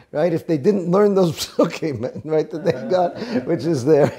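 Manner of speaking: talking through a chuckle; amused laugh breaking into the words. Real, not acted. Teacher joking to class about kids punished in Cheder, laughing.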